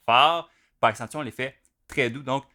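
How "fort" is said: "fort" punched loud and higher; emphatic stress. Shown as a demonstration. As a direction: hit "fort" hard after a pause, like an accented stroke. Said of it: "quand on a un coup accentué, on le fait". (« fort » accentué, lancé avec force)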